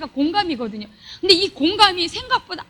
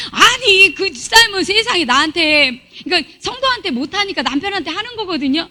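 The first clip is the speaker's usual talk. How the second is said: retold protest; 4 semitones higher, 5 dB louder than usual. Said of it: "제가 뭐 때마다".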